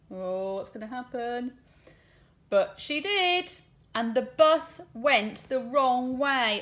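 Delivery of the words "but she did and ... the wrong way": lively, sing-song storybook reading with voiced lines; reading to children. Teacher reading a bus story aloud to her class, animated storytelling. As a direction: read it big for the little ones. Reads picture book to class.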